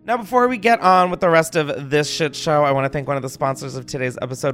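lively, punchy host-read advert; sponsor ad read. Acted. Host thanking a sponsor to listeners, upbeat ad read. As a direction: sell it like a playful podcast promo.

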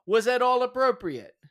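loud, high courtroom cross-examination; passionate closing argument. Pretend. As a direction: grill the witness like a prosecutor. Mock cross-examination of witness.

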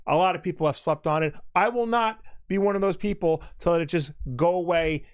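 mock presidential address to the nation; solemn, slow statesman voice, lightly done; slow gravelly statesman. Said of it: "I'd like to address the nation".

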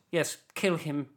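lightly voiced English villain; English film baddie. Comedian mimicking a Star Wars villain, English baddie voice. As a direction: play a movie baddie giving an order. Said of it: "all the baddies, English".

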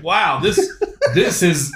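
words broken by laughter; laughing. Real, not acted. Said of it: "And then I started laughing even harder".

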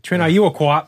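put-on light Boston accent call; hint of a Boston accent. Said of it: "You gotta do it in a Boston voice".

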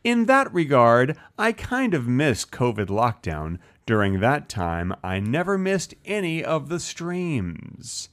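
slow eighties commercial narrator read; commercial narration. Shown as a demonstration. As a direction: read it like an old TV ad. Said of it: "a very good, like, commercial narration reading of, of that comment".

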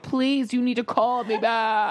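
mock pleading. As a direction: imitate a boy begging for a callback. Boy's SOS calls, acted.

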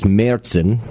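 Märzen as "MAIR-tsen"; German-style Märzen; German pronunciation. Shown as a demonstration. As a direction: say Märzen with an "air" vowel and ts. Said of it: "I believe in German it's".

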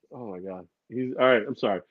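ordinary talk

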